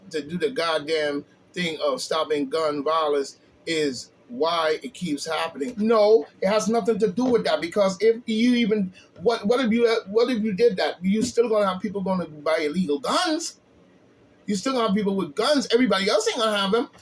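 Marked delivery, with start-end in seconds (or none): 5.8-16.9 angry rebuttal. Real, not acted. Heated rebuttal of a quoted tweet.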